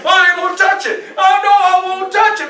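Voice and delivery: high, loud half-sung refusal; hammed-up sing-song no; fighting temptation. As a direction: chant it like a kid resisting food. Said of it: "I'm fighting it".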